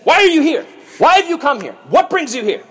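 high, demanding interrogation; harsh. Acted. Joseph confronts his newly arrived brothers, harsh. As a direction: fire questions harshly, pitched well up. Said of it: "he spoke harshly to them".

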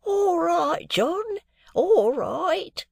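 put-on high, thin old man's voice. A narrator's reading. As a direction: pipe it like a cheerful very old man. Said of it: "replied the old man".

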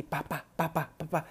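pounding heart sounds, pa pa pa; heartbeat imitation. Imitating own pounding heart during the exam. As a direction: tap out a racing heartbeat with the voice. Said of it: "sentí así mi corazón así".

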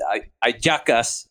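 "ayacas" said slowly, eye-JAH-kas; Venezuelan pronunciation. Shown as a demonstration. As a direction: demonstrate the local "ayacas", drawn out. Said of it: "as they would say in Venezuela".

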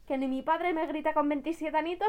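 indignant, pushed-up retort; mock indignation. Wife to a husband who shouts at her, mock indignant.

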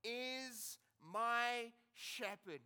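slow, measured scripture reading; solemn reading of a psalm. Acted. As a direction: read each phrase slowly, letting it land. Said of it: "let me read them again".

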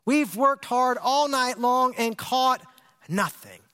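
frustrated. Retold or imitated. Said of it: "You can hear the frustration in his voice".

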